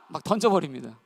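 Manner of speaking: ordinary talk, nothing marked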